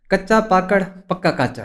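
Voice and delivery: कच्चा पाकड़ पक्का काचड़ tripped over; botched tongue twister. Shown as a demonstration. Lawyer fails the host's tongue twister. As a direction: stumble through the tongue twister. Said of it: "ये कह के बताओ".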